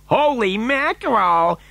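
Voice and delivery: high, drawn-out exclamation; shocked cry. A narrator's reading. Father hearing of another lift, crying in shock. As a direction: stretch it out in high astonishment. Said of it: "cried Mister T V".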